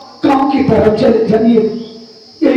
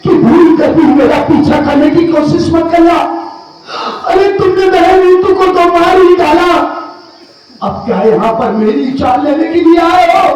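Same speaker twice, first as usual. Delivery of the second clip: angry yelling; 2 semitones higher than usual. Acted. Younger brother accusing the man who followed him, yelling. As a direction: confront him in outraged accusation. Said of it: "काहे चिल्ला रहे हो भैया?".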